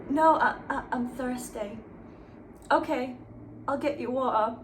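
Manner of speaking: fanfic dialogue in a light put-on British accent; a hint of British accent on the dialogue; mock British accent. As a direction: read the lovers' lines in a half-hearted British accent. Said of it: "The accent is getting worse".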